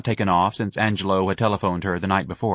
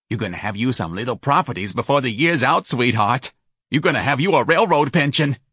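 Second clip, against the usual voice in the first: a lightly voiced brassy New Orleans woman, a bit higher; Santa's voice; 4 semitones higher than usual. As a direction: push Irene to call the charity, lightly in character. Santa continues on phone.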